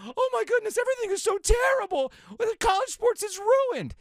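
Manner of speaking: whiny, pitched far up, mocking hand-wringers; mocking hysterical complaint; mock despair. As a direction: melodramatic wail, slowing on ruined. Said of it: "you're going".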